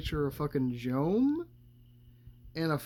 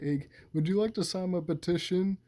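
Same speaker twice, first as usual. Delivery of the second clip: lightly voiced hippie, pitched up; a hint of a hippie canvasser, higher voice; hippie impression; 4 semitones higher than usual. Hippie asks for a petition signature, lightly acted. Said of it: "dresses up as a fucking hippie".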